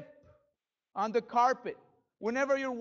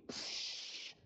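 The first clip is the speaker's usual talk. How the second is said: mock eruption hiss; 14 dB quieter than usual. Imitating an erupting volcano.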